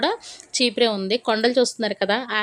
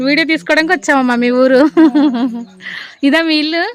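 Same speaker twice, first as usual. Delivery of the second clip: louder and higher, friendly projecting voice; speaking up; 4 semitones higher, 9 dB louder than usual. Real, not acted. Vlogger introducing himself to an old village woman, speaking up.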